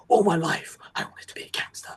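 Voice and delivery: hushed, whispery movie-trailer intensity; overdramatic delivery. Shown as a demonstration. Showing how the actor doesn't say it, whispered and overdramatic. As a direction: breathe it out as a big dramatic confession. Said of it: "he doesn't say it like".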